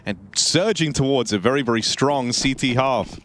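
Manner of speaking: energetic esports caster call over the round; live play-by-play. Acted. Caster sets up the round for viewers, driven play-by-play. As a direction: call the action with building excitement. Casting the match.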